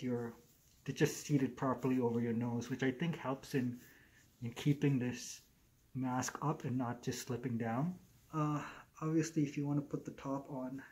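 muffled behind cloth mask; speaking through covered mouth; through a face mask. Real, not acted. Seen 2: Black fabric face mask covers mouth and nose throughout labelled words.

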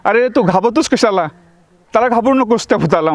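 a lightly voiced inner guide, calm and urging; reassuring inner voice talking him out of fear. Inner voice tells the scared narrator not to fear the ghost, lightly voiced and calm. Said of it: "मला आतून असा आवाज आला".

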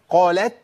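قالت ending on a clear light ت; wrong audible ta. Shown as a demonstration. Teacher rejecting the mistake, clear ت. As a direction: pronounce the final ت of قالت instead of merging. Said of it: "لا".

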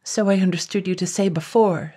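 chattering teeth, nervous voice; words through chattering teeth. Acted. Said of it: "his teeth chattering".

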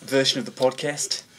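Aussie accent sliding into South African; shaky Australian accent. Shown as a demonstration. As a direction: attempt an Australian greeting, badly. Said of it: "my Aussie accent".

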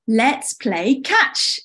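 slow, drawn-out playful invitation; playful call. Acted. Summer invites friends to play catch, playful call. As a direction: call it out slowly and eagerly.

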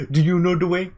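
mild mock Ugandan accent; Ugandan Knuckles voice. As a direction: quote the meme line with a grin. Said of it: "Are you pro".

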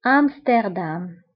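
French-style أمستردام, low and falling away; French pronunciation. Shown as a demonstration. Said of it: "بالفرنسية أيضًا".

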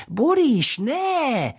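put-on very high, slow child's call to the cow. A narrator's reading. Little girl calling the cow Boris away, high cries.

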